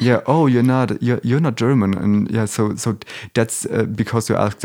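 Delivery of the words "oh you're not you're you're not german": slightly raised pitch on a mildly surprised quote; lightly acted realisation; mock surprise. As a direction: imitate people caught off guard by a discovery. Quotes people surprised by parents' accent.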